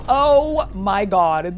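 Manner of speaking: loud, slow oh my god; drawn-out shocked gasp. Real, not acted. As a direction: stretch it out in shock. Shock at copied skin tones.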